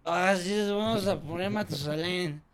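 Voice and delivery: put-on slow drunken voice; drunk guy. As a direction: drawl it out like a drunk. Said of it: "Sale un vato bien pedo".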